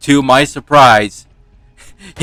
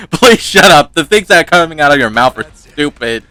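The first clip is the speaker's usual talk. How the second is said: laughing; 3 semitones higher than usual. Retold or imitated. Quoting relative while laughing.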